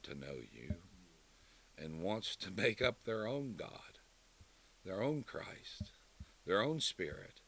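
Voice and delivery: measured, earnest pulpit prayer; closing prayer. Acted. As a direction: reverent prayer with leaned-on your.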